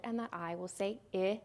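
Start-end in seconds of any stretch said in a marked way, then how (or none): 0.3-0.5 "I" said as the short i of "sit"; short vowel. Shown as a demonstration. Teacher sounding out a closed syllable, short vowel. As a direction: pronounce "I" as the ih in sick. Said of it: "that I is going to be short".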